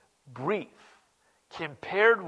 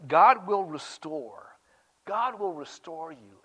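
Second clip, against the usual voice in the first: gentle promise; slower than usual. Acted. Slow softening scripture quote.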